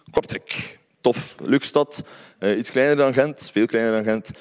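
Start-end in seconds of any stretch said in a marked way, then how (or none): 0.1-0.8 whispered punchline. Pretend. Punchline answer to why.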